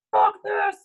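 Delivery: high-pitched mock scream of frustration; exasperated high yell, re-enacted; retold scream. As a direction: act out throwing a fit. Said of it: "throw shit and scream".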